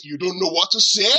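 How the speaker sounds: disbelieving question with rising end; challenging, astonished repeat; incredulous echo. Acted. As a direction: throw the excuse back as a question. Pastor throws the excuse back.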